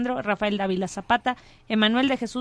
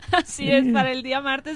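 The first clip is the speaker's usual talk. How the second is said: being tickled. Real, not acted. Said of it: "No le hagas cosquillas".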